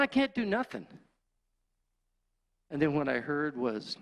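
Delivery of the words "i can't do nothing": high, exasperated outcry; desperate high-pitched protest; helpless yell. Retold or imitated. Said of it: "I just yelled out".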